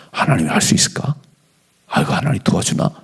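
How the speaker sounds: whispered, unsure inner voice; doubtful whisper. Pretend. Pastor voicing a doubting believer, whispered.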